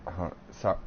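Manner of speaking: hiccuping while talking; words broken by hiccups. Real, not acted. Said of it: "sorry, I'm dealing with the hiccups".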